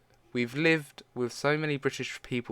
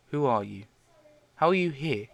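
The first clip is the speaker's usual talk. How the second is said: startled yell at a stranger, rising louder; 5 semitones higher, 5 dB louder than usual. Acted. Young girl yells at her older self. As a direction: shout who are you, alarmed. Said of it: "the young me yells".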